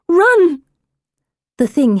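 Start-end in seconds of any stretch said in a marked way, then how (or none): 0.1-0.6 high, loud, drawn-out shout; stronger cry. A narrator's reading. Narrator warns again as the creature looms, stronger cry. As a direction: shout the warning with force.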